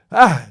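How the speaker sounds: sudden loud emotional cry; emotional gasp. Real, not acted. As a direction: let a choked-up "ah" burst out. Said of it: "I'm getting emotional now".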